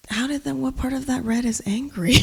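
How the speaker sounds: incredulous question through a laugh; laughing retort. Retold or imitated. Poet retelling her reply to a man who called her angry, laughing. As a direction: laugh while asking it in disbelief. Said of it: "And I was like".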